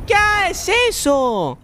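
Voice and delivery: high, slowed-down disbelief; long startled cry; startled question. Real, not acted. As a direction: drag it out in real shock. Surprised by something in game.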